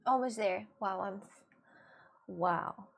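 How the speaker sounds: soft, teary fake cry, voice thin and hushed; fake crying on request. Streamer fakes crying on command for chat, teary and hushed. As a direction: squeeze out a pretend sob for chat. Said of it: "fake cry right now".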